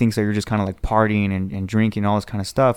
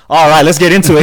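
pumped-up sports banter; 7 semitones higher, 10 dB louder than usual. Retold or imitated. Sports fans start arguing.

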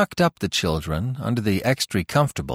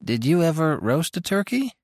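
put-on curious child's question, pitched higher; deep interest; 8 semitones higher than usual. A narrator's reading. Roxy quizzing Tilly about the turkey, curious. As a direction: ask wide-eyed. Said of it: "with an air of deep interest".

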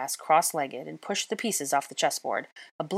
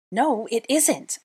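high, slow indignant cry; 7 semitones higher, 4 dB louder, slower than usual. A narrator's reading. Hermione denying Draco's claim over the knight. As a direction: protest in disbelief, drawing it out. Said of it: "I cried".

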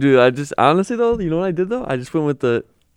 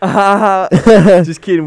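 laughing; 8 semitones higher, 12 dB louder, much slower than usual. Real, not acted. Laughing after joke.

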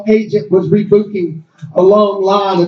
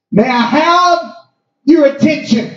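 a hint of a gate agent on the mic; announcer voice; 3 semitones higher than usual. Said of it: "she broadcasted throughout the terminal".

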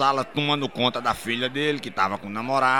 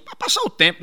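usual speaking voice

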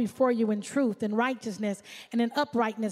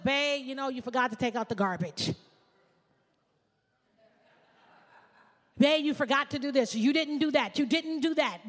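nagging wife. Pretend. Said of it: "Nag, nag, nag".

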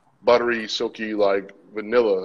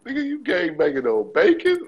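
higher, punchline delivery; comedian impression; 7 semitones higher than usual. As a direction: deliver it like a stand-up joke. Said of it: "It was like".

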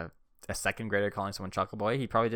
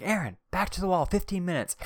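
imitating the teacher's scolding, higher and sharper; teacher scolding a rough kid at recess, mock-stern higher voice; 10 semitones higher, 4 dB louder than usual. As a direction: send the kid back to the wall, mock-stern. Teacher scolding him in story.

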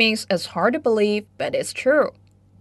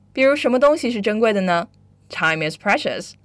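ordinary talk

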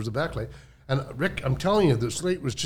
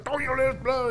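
retold scolding; 10 semitones higher, 4 dB quieter than usual. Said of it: "yelling and screaming at me".

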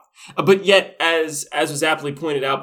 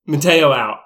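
louder brash mock sign-off; cocky doctor sign-off; 7 dB louder than usual. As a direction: toss it off loudly like a cocky doctor leaving. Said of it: "he's like".

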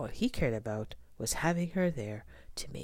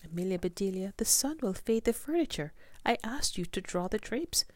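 higher, fussy rebuke; scolding lady voice; 6 semitones higher than usual. Acted. Mrs Rogers scolds Amelia.

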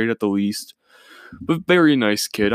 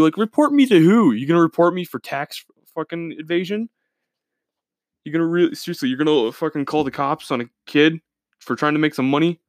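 indignant rant; 5 semitones higher than usual. Real, not acted. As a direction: fire back in outrage. Ranting at the retold Karen.

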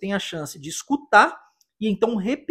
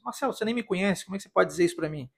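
lightly voiced listener's objection, quick and softer; a quick, quiet mock protest; doubting listener; 6 dB quieter, much faster than usual. Listener challenging the teacher's claim, lightly mock-doubting.

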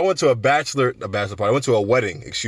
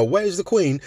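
mock-British, pitched up high; hoity-toity British accent; 7 semitones higher, slower than usual. Mimicking British people over teacup and crumpets, hoity-toity British accent. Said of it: "If British accent sounds like hoity-toity".

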